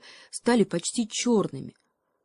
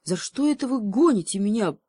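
moaning cheetah; 4 semitones higher, 4 dB louder than usual. Acted. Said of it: "простонал гепард".

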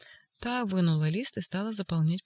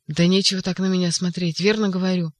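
louder, pressing his point; loud insistence; 6 dB louder than usual. Acted. Ivan insisting to the staring orderlies, loud. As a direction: insist hard that it's true.

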